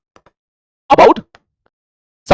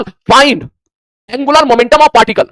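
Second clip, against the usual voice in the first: slow dictation; 4 semitones higher, much slower than usual. Acted. Teacher dictating question slowly.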